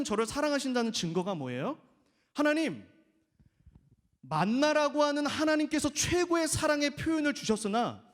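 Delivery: mock whiny believer; complaining prayer. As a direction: grumble about unwanted love. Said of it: "저와 여러분의 모습이에요".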